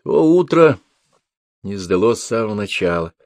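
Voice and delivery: ordinary delivery, nothing marked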